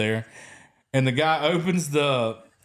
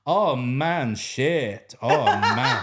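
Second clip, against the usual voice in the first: put-on a light Ghanaian accent with slang; a laughing Ghanaian oh man; much slower than usual. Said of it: "it mixes in with his accent".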